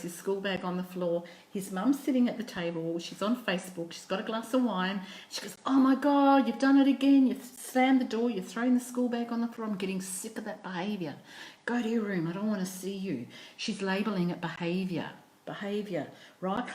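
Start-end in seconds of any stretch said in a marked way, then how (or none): 5.7-13.3 loud, higher fed-up outburst that tails off; cross telling-off, acted for a story; exasperated mum scolding. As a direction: act out a mum who has had enough. Fed-up mum scolds her son.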